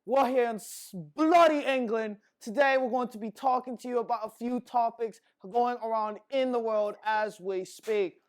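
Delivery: hammed-up British accent, loud and high; a cheery mock British host. Podcast host opening the show in a mock British accent. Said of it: "you gotta talk in the British accent".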